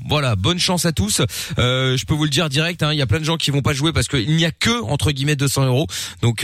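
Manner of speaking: upbeat radio game announcement; radio host. Acted. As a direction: pitch the contest to listeners.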